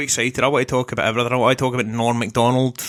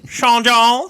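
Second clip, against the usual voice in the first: laughing; 9 semitones higher, 6 dB louder than usual. Acted.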